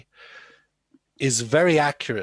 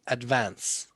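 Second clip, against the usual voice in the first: "advance" in an Irish accent; 3 dB quieter than usual. Shown as a demonstration. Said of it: "In an Irish accent".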